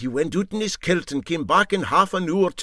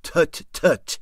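mock scolding; 4 semitones higher, 5 dB louder than usual. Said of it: "said Parahandy".

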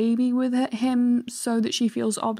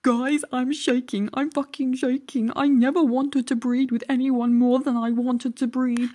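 mock creepy commenter voice. Shown as a demonstration. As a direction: drag it out like a lovestruck creep reading his own post. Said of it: "do this again in the voice".

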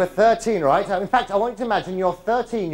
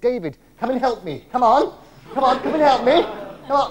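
mother pleading; 5 semitones higher, 5 dB louder than usual. Retold or imitated. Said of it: "she said".

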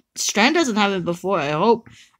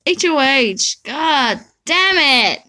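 frustrated; 5 semitones higher, slower than usual. Real, not acted. Bad summon result.

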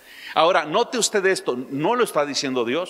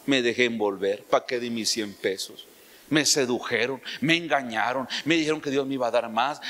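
grumbling complaint; 5 semitones lower than usual. Retold or imitated. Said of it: "ahí va renegando".

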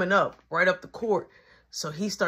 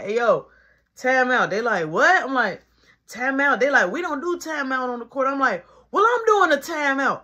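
louder insistent call for timeout; 4 semitones higher, 3 dB louder than usual. Retold or imitated. Teller insisting on a timeout to the other players, louder. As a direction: demand the timeout over the court.

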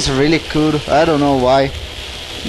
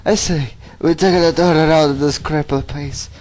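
put-on Jack Sparrow accent. Sailor Nico urging the crew to leave, Jack Sparrow accent. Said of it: "that's my accent for Jack Sparrow".

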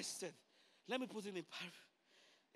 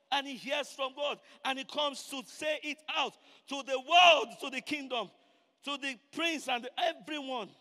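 emphatic preaching; 3 semitones higher, 7 dB louder than usual. Real, not acted. Preaches with rising force.

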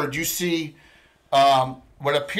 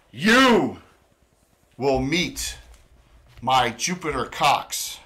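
dopey cartoon bellow; 3 semitones lower, much slower than usual. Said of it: "you hear a deep voice".

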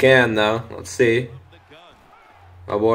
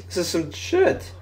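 slow, much softer, under the breath; disgusted mutter; 5 semitones higher, 8 dB quieter than usual. Real, not acted. Gamer watching the other team drive, slow soft mutter. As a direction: grumble it to yourself.

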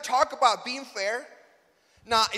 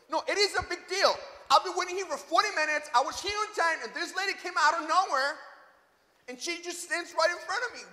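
indignant protest; 5 semitones higher than usual. Retold or imitated. Arguing back at parents.

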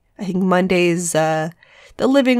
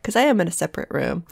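groggy just-woke-up morning voice. Real, not acted. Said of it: "sorry about the morning voice".

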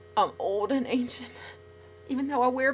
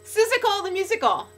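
spoken out high and loud; excited; 8 semitones higher, 5 dB louder than usual. Real, not acted. Thrilled about Seussical, excited. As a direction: say it as an excited exclamation.

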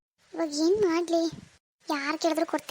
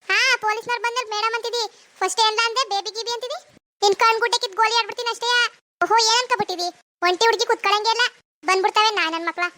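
higher, fierce scolding; angry scolding; 4 semitones higher than usual. Acted. Woman scolds the man who called her baby, angrily. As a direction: tear into him for his cheek.

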